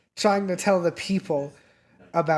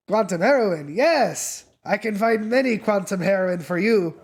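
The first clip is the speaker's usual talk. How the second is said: higher, louder, overeager street dealer; eager drug dealer; 4 semitones higher, 4 dB louder than usual. Acted. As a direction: sell it hard, thrilled to have a buyer. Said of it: "he looks at you and goes".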